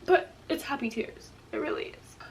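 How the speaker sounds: real crying voice after a cough; tearful and puzzled at herself; asking through real tears. Real, not acted. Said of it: "Why am I crying?".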